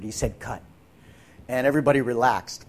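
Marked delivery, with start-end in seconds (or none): 0.4-0.6 softly imitated near-whisper; director's hushed call, mildly imitated; imitating a near whisper. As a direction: half-whisper the call, barely voiced. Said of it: "and he almost whispered".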